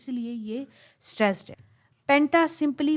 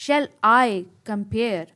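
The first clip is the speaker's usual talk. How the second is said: very slow "Shall I compare", loud weight on "I" and "-pare"; short "com", forceful "pare" in "compare"; iambic stress; 6 dB louder, much slower than usual. Shown as a demonstration. Teacher demonstrates the beat, slowly stressing "I" and "-pare". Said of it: "अब कम छोटा बोला गया और पेयर में ज़्यादा force".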